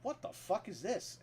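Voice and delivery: high, slow, incredulous "what the fuck"; stunned by the rumour he's reading, pitch shooting up; shocked disbelief. Retold or imitated. Retelling his shock reading the post.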